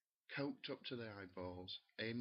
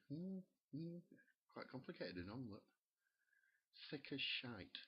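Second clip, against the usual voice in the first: mock presenter; 5 semitones higher than usual. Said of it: "Holly Willoughby's there going".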